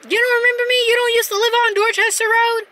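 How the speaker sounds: imitating the old man, high and insistent. Older guy pressing her at the donut shop, high and insistent. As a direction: push him to recognise you, as the older guy. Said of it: "And he's like".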